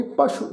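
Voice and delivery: ਪਸ਼ੂ with a dotted ਸ਼ and only a light ਊ; correct pronunciation. Shown as a demonstration. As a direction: model ਪਸ਼ੂ gently with a clear sh sound. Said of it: "ਇਹਦਾ ਉਚਾਰਨ ਇੰਜ ਹੋਵੇਗਾ ਜੀ".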